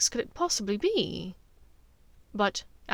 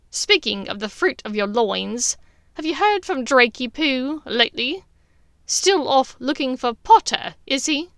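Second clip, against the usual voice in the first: teasing; 3 semitones higher, 8 dB louder than usual. Acted. Bellatrix teasing her sister.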